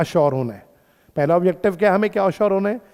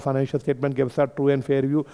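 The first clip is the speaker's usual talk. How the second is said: very slow, each word spaced out for notes; slow dictation; 5 semitones lower, 7 dB quieter, much slower than usual. Shown as a demonstration. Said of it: "अब देखो, ये word बहुत आसान word है". (बहुत धीरे, लिखवाते हुए)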